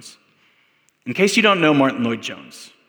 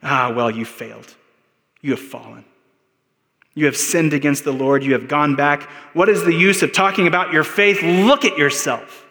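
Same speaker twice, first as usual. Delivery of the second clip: accusing enemy; 3 dB louder than usual. Acted. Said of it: "the enemy will come and say something like this to me".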